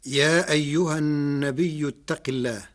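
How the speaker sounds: النبيء, long ya held and closed with a hamza; Warsh reading. Shown as a demonstration. Lecturer quoting the verse to explain Warsh, Warsh recitation. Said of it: "قرأ ورش كلمة النبي".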